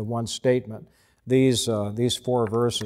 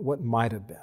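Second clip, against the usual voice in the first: quiet; 2 semitones lower, 6 dB quieter, faster than usual. Shown as a demonstration. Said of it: "wonder what might have been".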